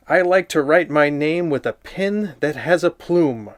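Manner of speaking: lightly voiced prim little girl showing off; girly Nancy voice. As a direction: read it like a proud, fancy little girl. Reads the book as Nancy.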